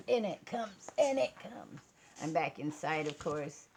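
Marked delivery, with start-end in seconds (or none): 0.1-1.8 rising, each time higher and louder; hammed-up awe as the light comes; mock dramatic build. Vlogger hams up the light coming on, mock awe.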